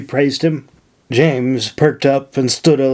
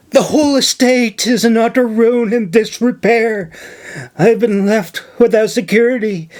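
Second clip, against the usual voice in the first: higher, earnest pleading voice; pleading young woman; 5 semitones higher than usual. Acted. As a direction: lay the distress on thick. Nora pleads with governor.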